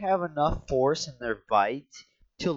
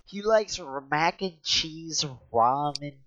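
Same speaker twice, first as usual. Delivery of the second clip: mock outrage; 3 semitones higher, 3 dB louder, slower than usual. Mock-indignant speech about friend.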